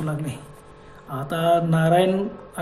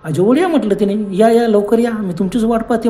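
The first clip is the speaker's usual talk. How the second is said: imitating sweet voice; 3 semitones higher than usual. Friend recalling the woman's sweet call, imitated. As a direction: mimic her sweet beckoning. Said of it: "किती मंजूळ आवाजात ती बोलली".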